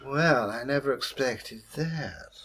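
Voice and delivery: a hint of a Scottish accent; lightly Scottish-tinged devil voice; slipping into Scottish. Devil surprised by the gold, slipping into Scottish. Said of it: "gave a bit Scottish then".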